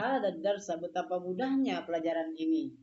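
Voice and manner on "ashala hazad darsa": "ashala hazad darsa" exclaimed in wonder; exclamation. Shown as a demonstration. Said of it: "tapi tanda seru".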